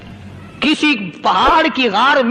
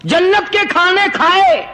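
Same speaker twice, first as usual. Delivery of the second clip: dog rebuking the saint; 5 semitones higher than usual. Acted. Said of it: "اللہ پاک نے کتے کو بھی زبان دی".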